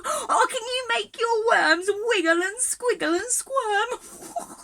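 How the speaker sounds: rally the little ones with glee; excited. Real, not acted. Teacher cheers the children to wiggle, high and thrilled.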